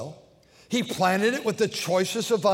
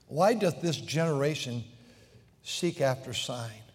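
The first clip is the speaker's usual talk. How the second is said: weary sigh-laden question; 6 semitones lower, 5 dB quieter than usual. Acted. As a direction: ask it like a tired, grieved father. Jesus sighs, then asks.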